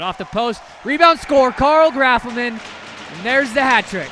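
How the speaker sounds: building to a high, shouted goal call; big, drawn-out hat-trick shout; excited goal call. Real, not acted. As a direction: erupt on the rebound, then stretch out the scorer's name. Calls a hat-trick goal live.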